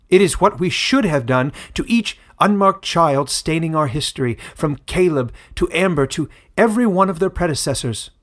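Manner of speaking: a leader decreeing to his whole people; proclaiming elder. A narrator's reading. Feralus proclaims the pact.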